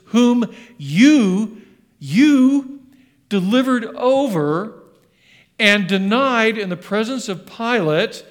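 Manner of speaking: loud, high, accusing sermon; Peter preaching boldly. Retold or imitated. Peter confronting the crowd over denying Jesus, loud and accusing. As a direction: drive each word home like an arrow. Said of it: "as he's preaching".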